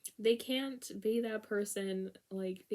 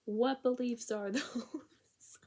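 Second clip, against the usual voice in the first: slow breathy whisper broken by a laugh; 2 semitones higher, much slower than usual. Acted. To viewers after twenty minutes explaining, slow laughing whisper. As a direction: whisper the question through a giggle, slowly. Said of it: "I've been talking about them for twenty minutes".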